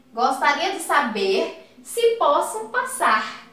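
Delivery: slow, gentle polite request; mild, courteous ask; softened request. Shown as a demonstration. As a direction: ask it like a favour. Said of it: "quase que pedindo um favor".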